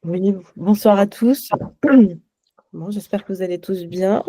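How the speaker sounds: hoarse, worn-out voice from the grave. Real, not acted. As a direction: speak through a sore, rough throat. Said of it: "ma voix d'outre-tombe".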